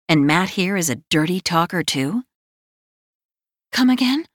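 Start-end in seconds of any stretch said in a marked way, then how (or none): 3.7-4.3 high startled squeak; stunned question. A narrator's reading. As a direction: blurt it out in shock. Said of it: "I finally manage".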